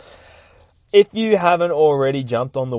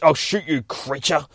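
repeated threat; 6 semitones higher than usual. Acted. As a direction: say it again more hurried. Doctor repeats his threat.

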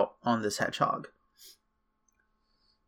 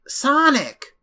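eager shout, much higher; excited call; 13 semitones higher, 3 dB louder than usual. Retold or imitated. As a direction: call out to an old friend. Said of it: "who's like".

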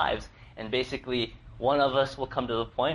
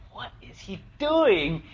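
higher, slower puzzled wife, a touch hammed-up; mock baffled wife; 8 semitones higher, 4 dB louder, slower than usual. Husband retelling wife's reaction to the bottle, mock baffled. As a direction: lightly act out the wife's disbelief. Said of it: "Jinha's kind of like".

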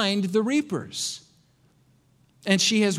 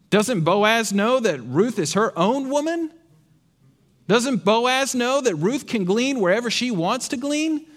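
sarcastic; 2 semitones higher than usual. Pretend. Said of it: "I'm being sarcastic".

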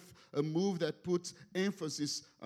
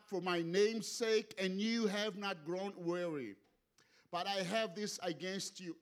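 measured, emphatic Bible reading; scripture reading aloud; 3 semitones higher than usual. Acted. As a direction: read the verses out to a congregation. Reads a scripture passage aloud to congregation.

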